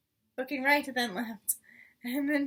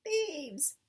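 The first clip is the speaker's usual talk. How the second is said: shriek; 5 semitones higher than usual. Acted. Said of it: "shrieked the rat".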